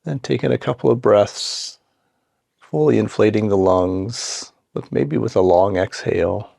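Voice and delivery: calm, unhurried meditation guidance with long pauses; guided meditation. Acted. Guide settling listeners into seat and breath, calm guided meditation. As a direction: ease them gently into the practice, leaving space between phrases.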